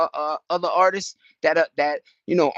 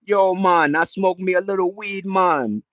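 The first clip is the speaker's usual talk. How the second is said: imitating a reggae singer; 4 semitones higher than usual. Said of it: "He was telling the world".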